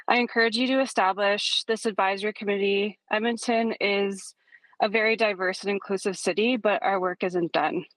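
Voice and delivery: breathless after running upstairs; winded, catching breath between words. Real, not acted. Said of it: "Oh, sorry, I'm out of breath".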